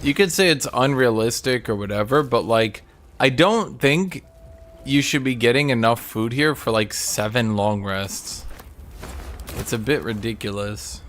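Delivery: squeaky kitty voice. Retold or imitated. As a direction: squeak it out like a tiny kitten. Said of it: "Kitty's like".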